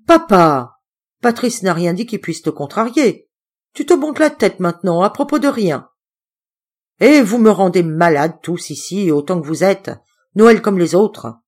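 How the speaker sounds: loud, fed-up complaint, slowing at the end; you make me sick, all of you; exasperated daughter. Acted. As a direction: daughter fed up with the table quarrel. Daughter losing patience.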